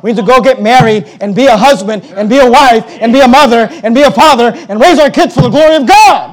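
rolling pulpit list, climbing to the last word; building preaching crescendo. Real, not acted. Preacher voicing converts' resolve to raise families, building fervently.

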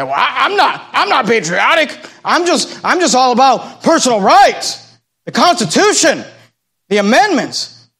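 lightly mimicked protesting believer; mock libertarian objector. Preacher mimics Christians all about personal rights, mock protest. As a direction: act out a mildly worked-up objection.

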